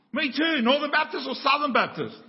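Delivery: thrilled to find a kindred soul; excited stranger. Retold or imitated.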